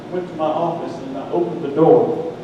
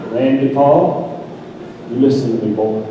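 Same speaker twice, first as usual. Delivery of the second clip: stern tone. Retold or imitated. Friend on phone pulls rank on preacher, stern. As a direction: imitate a friend laying down the law. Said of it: "when we got into those tones".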